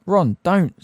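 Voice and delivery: sharp, high and loud rebuke; angry high-pitched warning to a friend. Acted. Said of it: "said Hermione angrily".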